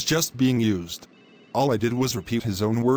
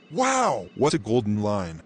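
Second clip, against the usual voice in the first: sarcastic wow, pitched way up; mock amazement. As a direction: gasp it as if dazzled. Mocking Leo's golden line.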